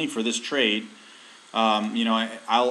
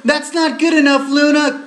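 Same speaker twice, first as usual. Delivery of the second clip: shouting at pet; 10 dB louder than usual. Real, not acted.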